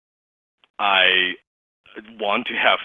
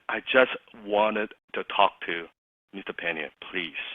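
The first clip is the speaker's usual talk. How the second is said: timid plea; 3 semitones lower, 7 dB quieter than usual. Retold or imitated. Nervous caller asking politely.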